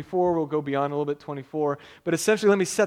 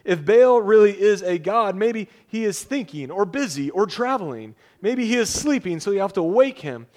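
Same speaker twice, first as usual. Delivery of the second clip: loud, higher taunting jeer at rival prophets; mock them, pray louder; 4 semitones higher, 5 dB louder than usual. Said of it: "Elijah began to make fun of them".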